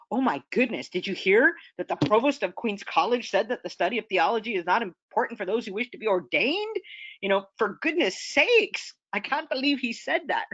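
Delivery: acting out an incredulous, emphatic reaction; a touch of exclaiming shock, hammed up for the example; mock disbelief. Writer reacting to the provost's statement, mock disbelief. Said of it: "the one who is putting the emphasis".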